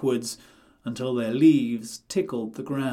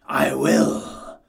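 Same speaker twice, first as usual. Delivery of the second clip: cried; 6 dB louder than usual. A narrator's reading. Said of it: "cried the wolf".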